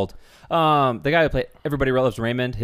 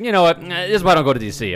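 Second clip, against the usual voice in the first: retold exasperation; 8 semitones higher, 5 dB louder, faster than usual. Retold fed-up outburst while driving.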